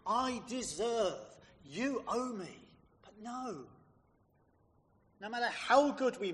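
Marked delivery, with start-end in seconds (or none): 0.1-2.7 slow, insistent claim of what is owed; self-righteous. Acted. Elder son to his father, slow self-righteous demand. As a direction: lean on each word as a demand. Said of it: "in his self-righteousness says".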